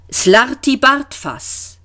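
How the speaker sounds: put-on patient, drawn-out old man; gentle repeat. A narrator's reading. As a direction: repeat the name slowly and gently. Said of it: "wiederholte der Alte sanft".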